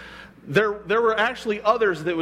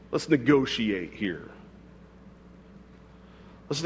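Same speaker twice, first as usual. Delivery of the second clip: mock bargaining; 6 semitones lower, 7 dB quieter than usual.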